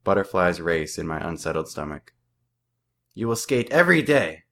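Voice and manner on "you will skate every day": loud, higher mock yell with a French accent; coach shouting. A narrator's reading. Hockey coach yelling at his silent team, French-accented shout. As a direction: bark it like an angry French-Canadian coach. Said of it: "Coach Martin shouts".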